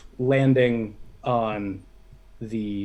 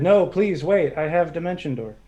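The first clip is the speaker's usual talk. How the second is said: higher, mildly raised calling voice; mild shout; 4 semitones higher, 4 dB louder than usual. Acted. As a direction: call after someone, half shouting. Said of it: "I shouted".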